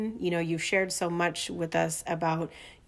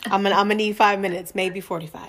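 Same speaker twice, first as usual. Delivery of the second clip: louder, fired-up call to stand back; hyped up; 7 dB louder than usual. Real, not acted. Host reacting to guest's story, loud and fired up. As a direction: rev up like she's ready to fight.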